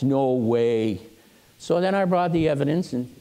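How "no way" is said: low-pitched, dismissive refusal to believe; disbelieving. Retold or imitated. Claire hearing the bat is on a shelf, disbelieving. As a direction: lower the pitch and reject it.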